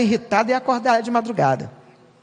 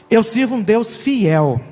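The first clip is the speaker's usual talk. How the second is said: proclaiming shout; slower than usual. Acted. Preacher proclaiming God's faithfulness.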